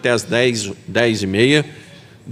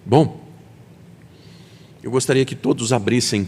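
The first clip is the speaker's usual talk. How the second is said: usual speaking voice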